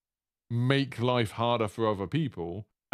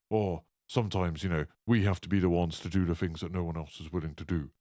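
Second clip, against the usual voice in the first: a lower, lightly put-on old posh man; trailer-line Price, faintly posh and aged; 5 semitones lower than usual. Quoting Price's trailer line in a faint posh old-man voice. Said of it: "I know that's not his voice".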